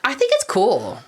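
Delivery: breathy whispered aside. Real, not acted. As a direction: whisper it conspiratorially. Teasing reply to vampire remark.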